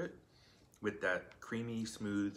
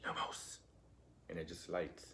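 lumos whispered, no voice at all; whispered lumos as in the films; 5 semitones lower, 8 dB quieter than usual. Shown as a demonstration. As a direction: breathe the word lumos like a movie wizard. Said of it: "it's like this".

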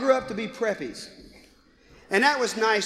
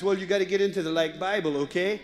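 put-on valley girl; 4 semitones lower than usual. Daughter explaining the Bible to her friend, valley girl voice. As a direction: preach like a laid-back valley girl. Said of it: "a valley girl".

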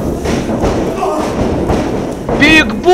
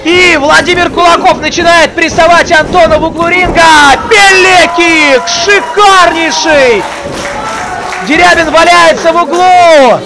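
wrestling commentator. Real, not acted. Live wrestling match commentary peak.

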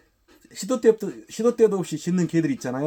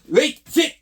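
loud, high, clipped-off order; firm command; 12 semitones higher, 10 dB louder, slower than usual. Real, not acted. Trainer ordering the dog to wait, firm command. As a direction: fire out short forceful commands.

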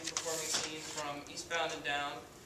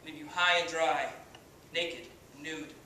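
cocky washed-up pitcher, swaggering speech; brash halftime pep speech, full of bravado; Kenny Powers. Acted. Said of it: "as Kenny Powers".

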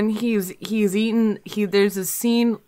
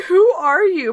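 retold scare; 9 semitones higher, 5 dB louder than usual. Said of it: "I was so scared of her".

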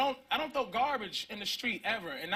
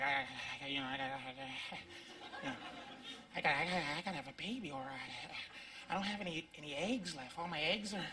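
put-on panicking girlfriend; 9 dB quieter than usual. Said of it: "she's panicking".

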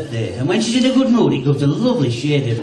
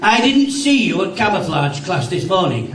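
sergeant major; 4 semitones higher, slower than usual. Acted. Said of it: "the Sergeant Major said to me".

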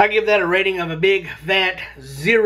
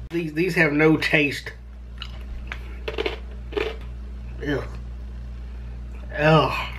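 talking while chewing; chewing between words; mouth full of cracker; 3 semitones lower, 6 dB quieter than usual. Real, not acted. Seen 0: Cracker bitten at 1.0–1.6, jaw chewing throughout the words.

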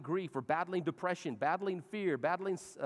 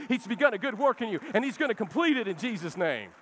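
yelling in love; 4 dB louder than usual. Acted. Pastor yells at the congregation in love, building to a loud preach. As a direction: urge them on harder and harder, lovingly. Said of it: "yells at you in love".

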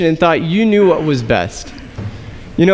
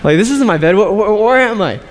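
groggy confusion. Retold or imitated. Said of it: "woken up and saying".

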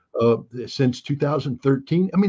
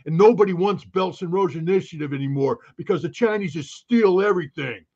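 raised-pitch mock dumb American; dumb American accent; 4 semitones higher than usual. Mimicking critics of Belts and Roads, dumb American accent. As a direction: rant like a know-it-all dumb American. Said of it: "my worst dumb American accent".

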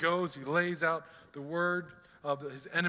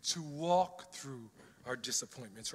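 quiet prayer; 4 dB quieter than usual. Shown as a demonstration. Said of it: "what we need to do is say".

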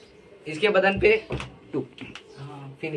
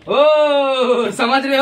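drawn-out theatrical catchphrase; hammed-up knowing question; TV detective parody; 3 semitones higher, much slower than usual. Shown as a demonstration. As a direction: stretch it like a melodramatic inspector.

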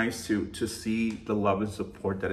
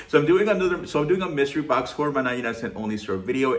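real excitement; 2 semitones higher, faster than usual. Real, not acted. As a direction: let the excitement spill over into the announcement. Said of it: "I'm so excited".

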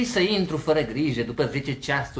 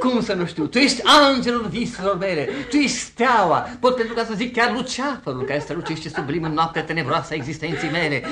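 raised, swelling romantic praise; rapturous declaiming; 2 semitones higher, 4 dB louder than usual. Acted. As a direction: proclaim adoration like bombastic poetry. Suitor rhapsodises until cut off.

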